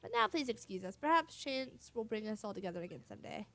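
put-on boastful Flavio accent, grandly declaimed; Flavio's accent. Flavio boasting of his glorious return to Rogueport, in his accent. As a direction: play up Flavio's accent like a vain adventurer. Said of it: "I've been doing Flavia's accent".

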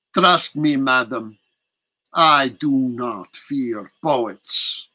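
lightly voiced prince, commanding; a hint of an imperious old count; proud Dracula. Dracula declaring himself to the English prisoner, proud.

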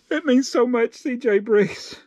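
high, choked-up mock gratitude; tearful thanks. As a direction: thank them as if about to cry.

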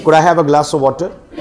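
very slow, each word laid out for the class; slow teacher demo; slow model sentence. Shown as a demonstration. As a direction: spell it out slowly so students can repeat. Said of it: "तो पूरा बोल के दिखाइए".

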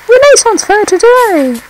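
high, loud excited announcement. Real, not acted. Gamer hyping the new level to viewers, high and loud. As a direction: proclaim it like a fairground crier.

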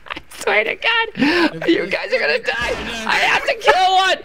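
high-pitched, desperate threat; exasperated pleading. Real, not acted. Player begging teammates for one kill, exasperated pleading. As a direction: plead in frustration, voice pushed up high.

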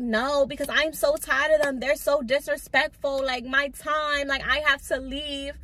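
mock yelling. Retelling the boss yelling at her over lashes, mock shout. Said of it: "she's yelling".

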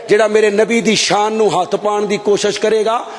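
usual speaking voice

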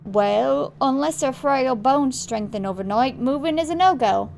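attempted Australian accent, firm; Australian dad. Dad telling son moving is out, attempted Australian accent. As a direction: refuse in a rough Australian accent. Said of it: "trying to do the accent".

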